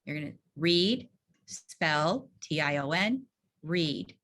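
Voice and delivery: spaced, rising steps; walk them through each step; routine steps. Shown as a demonstration. Teacher modeling the correction routine, spaced steps. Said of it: "The correction is".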